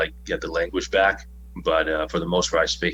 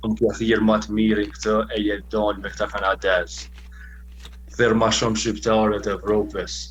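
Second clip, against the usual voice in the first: aggressive wrestling promo. Acted. Wrestler cutting a promo in Albanian, then English, menacing. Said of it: "That was very intimidating".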